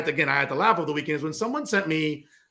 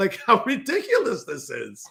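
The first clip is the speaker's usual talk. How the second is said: words breaking up with laughter, swooping pitch; 2 semitones higher than usual. Reacting to a news site's mission statement: laughing while talking. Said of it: "I can't stop laughing".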